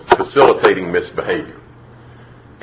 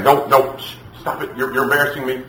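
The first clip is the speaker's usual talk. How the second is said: lightly acted flustered hushing; mild mock scolding broken by a shh; embarrassed mother shushing; 4 semitones higher than usual. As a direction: play a mom trying to stop a public scene. Mother hushing tantrum child.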